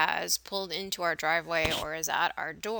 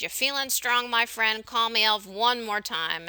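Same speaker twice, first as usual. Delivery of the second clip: raised, louder mock threat; imitating someone really upset, voice pitched up; upset movie character; 4 semitones higher, 4 dB louder than usual. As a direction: act out an offended man's challenge, higher and louder. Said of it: "he gets really upset and he says".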